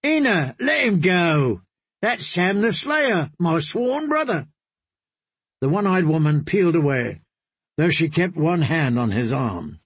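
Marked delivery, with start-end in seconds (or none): 0.0-4.5 cheerful host. Acted. Darian greets Sam across the room.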